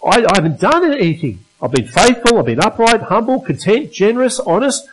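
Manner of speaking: a lightly voiced anguished Job; crying out. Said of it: "he's crying out".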